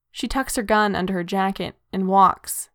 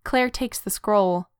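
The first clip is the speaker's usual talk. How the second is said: usual speaking voice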